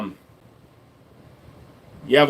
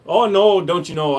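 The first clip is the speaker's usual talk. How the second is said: put-on Minnesota accent. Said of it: "What about Wisconsin there, bud?".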